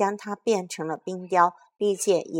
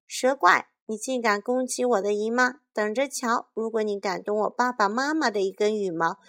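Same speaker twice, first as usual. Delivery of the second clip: put-on a child's furious dare; angry threat; 2 semitones higher than usual. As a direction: threaten the monster, fists clenched. Carmen threatens the basilisk.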